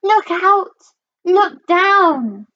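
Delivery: high-pitched warning call; yelling. A narrator's reading. Drip warns the sisters on the bridge, yelling. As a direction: call it out high, stretching the last word. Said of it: "who yelled".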